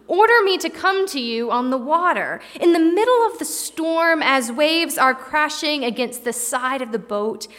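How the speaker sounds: earnest, urgent plea to his Lord from the boat; Peter pleading. Acted. Peter calling to Jesus across the storm, pleading. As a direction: beg to be called out onto the water.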